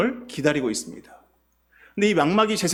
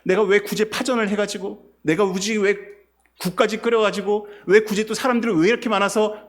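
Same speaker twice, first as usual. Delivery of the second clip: exasperated grumbling; a lightly acted, whiny complaint; complaining; 3 semitones higher than usual. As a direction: play Martha fed up while cooking. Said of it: "일을 하면서 불평이 생길 것입니다".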